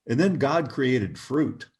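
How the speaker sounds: slow, measured intoning of a stranger's words; slow solemn quote. Retold or imitated. Stranger preaching to his companion on the street, slow intoning. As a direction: draw it out like a sermon line.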